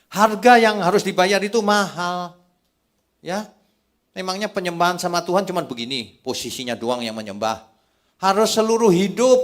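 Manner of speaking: high, loud sermon delivery; forceful preaching. Acted. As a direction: drive the point home to the congregation, loud and high.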